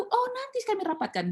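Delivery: high singsong stalling, imitating an official; mock-polite high-pitched promise; stock brush-off. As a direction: parrot a polite put-off in a high voice. Imitates repeated stalling reply.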